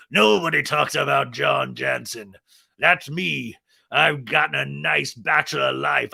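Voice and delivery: lightly voiced brooding tough guy; intense John Jansen. Host imagining John Jansen at his boathouse, light menacing voice. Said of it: "the most intense man ever".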